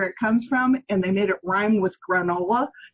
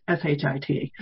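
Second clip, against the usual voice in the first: spelled out; 7 semitones lower than usual. Shown as a demonstration. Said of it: "excuse my language".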